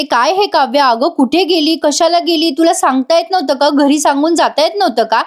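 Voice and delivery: mock-angry mother scolding her late daughter. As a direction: retell the mother nagging her daughter, pitch climbing. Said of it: "आता खूप चिडलेले असतात सगळेजण".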